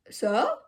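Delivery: "so" as a short burst gliding up; trying to pop the O. Shown as a demonstration. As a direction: try popping the O in "so", lifting the end. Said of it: "Is that how you pop an O?".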